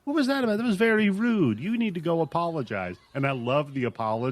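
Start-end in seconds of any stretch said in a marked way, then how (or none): 0.0-3.0 high, mock-stern scolding mother; scolding mom. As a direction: play the mom telling off her kid, pitched up. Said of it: "She's like".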